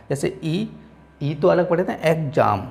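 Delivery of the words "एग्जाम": एग्जाम with the first syllable set apart; pronunciation demo. Shown as a demonstration. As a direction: separate एग् from जाम in एग्जाम. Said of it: "ऐसे पढ़े ई अलग". (एग्जाम में पहला हिस्सा अलग करके)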